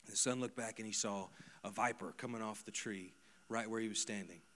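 ordinary talk, nothing marked

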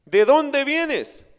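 high, slow, amazed disbelief; Cleofás marveling at the stranger; astonished question. Retold or imitated. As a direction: ask it as if you can't believe it. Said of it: "es una expresión de admiración".

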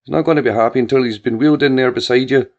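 tickled ma picturing her husband; fond mother teasing about dad; mother voice, amused. A narrator's reading. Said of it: "Annie giggled".

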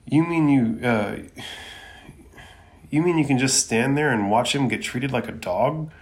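a mild shriek of disbelief; boy shocked at the ninja's coldness. Acted. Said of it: "And Naruto shrieks".

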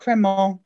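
Cremont ending on an open "mon"; correcting Cremont to "cremon", T dropped; silent T in Cremont. Shown as a demonstration. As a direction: say Cremont without the T. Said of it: "without pronouncing the T in the middle".

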